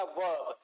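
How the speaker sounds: "वर्ब" with the r dropped, like "वə"; light intonation. Shown as a demonstration. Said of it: "बहुत ही हल्के intonation से बोला जाएगा".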